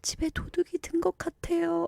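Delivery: high-pitched, near-crying, tearful whimpering. Retelling their own call to the police about a burglar, re-enacting a tearful whimper. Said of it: "울먹울먹 하면서".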